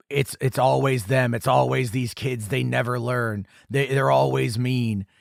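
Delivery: put-on slow, drawn-out recorded grumble about kids; hint of a sheriff's slow, level monologue; lightly voiced sheriff. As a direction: lightly imitate a sheriff over a little speaker, slowly. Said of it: "hearing the sheriff talking".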